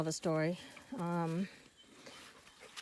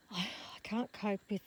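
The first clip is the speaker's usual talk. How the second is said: breathless; 4 dB quieter than usual. Real, not acted. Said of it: "I'm breathless now".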